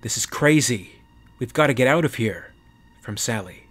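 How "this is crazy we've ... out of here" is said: panicked. Acted. Panic under fire.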